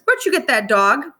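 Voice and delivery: put-on older boy's voice.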